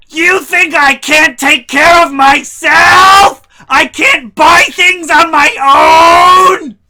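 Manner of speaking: high, loud, slow shrieking; mock furious mom. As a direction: overplay the offended mom. Mom's take, impersonated.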